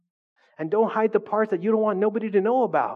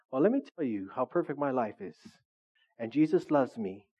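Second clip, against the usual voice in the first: low-pitched, self-satisfied imitation; mock smug; 5 semitones lower, 3 dB quieter than usual. Someone who has it all telling listeners, mock smug and low. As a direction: drop the voice to parody a complacent believer.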